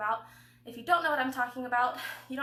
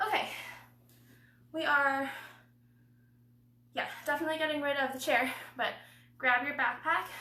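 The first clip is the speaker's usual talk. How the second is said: panting, out of breath, catching breath. Workout host mid-session explaining the next circuit, out of breath. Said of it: "attempt to simultaneously catch my breath".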